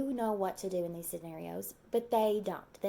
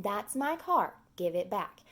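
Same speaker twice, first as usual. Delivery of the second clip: firm demand. Shown as a demonstration. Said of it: "Tell him".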